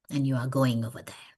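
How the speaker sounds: low whispered insistence; whispered order. Retold or imitated. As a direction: whisper the final word on it. Director insists quietly.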